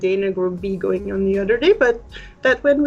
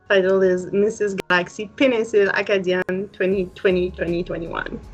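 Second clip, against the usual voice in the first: Acadian French lilt on the title; acadian accent. Real, not acted. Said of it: "make it sound so pretty".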